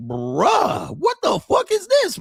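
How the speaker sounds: high, loud disbelieving yell; shocked shout. Retold or imitated. Watching the show at her house, shouting in shock. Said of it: "I was like".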